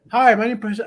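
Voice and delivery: imitating a teacher's heavy Asian accent; Asian accent impression. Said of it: "I'm doing his accent".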